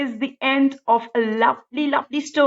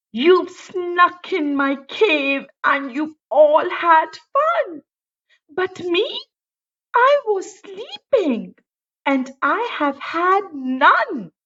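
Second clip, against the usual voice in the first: higher, whiny bear complaining; grumpy bear; 4 semitones higher, slower than usual. Acted. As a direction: sulk like a left-out bear.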